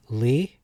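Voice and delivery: "Li" said as lee; a long ee in "Li"; pronounced lee. Shown as a demonstration. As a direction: demonstrate "Li" as lee. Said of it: "can be pronounced".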